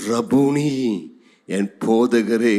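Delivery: low, drawn-out address; reverent recognition. Acted. Mary answering her risen teacher, reverently. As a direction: let recognition sink in, low.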